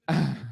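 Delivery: short imitated moan back; reply with a brief mock moan; answering mock moan. Man answering her moans, brief mock moan. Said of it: "responding to her moans".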